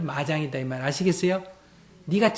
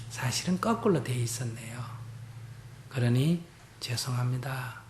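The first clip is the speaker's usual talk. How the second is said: humble confession; 4 semitones lower, 5 dB quieter than usual. Shown as a demonstration. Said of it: "지금부터 남편을 향해서 절을 하셔야 돼요".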